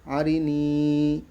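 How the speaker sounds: slow, level chant with long held vowels; drill recitation. Shown as a demonstration. Teacher reviewing the words just read, slow elongated recitation. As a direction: draw out every long vowel, word by word.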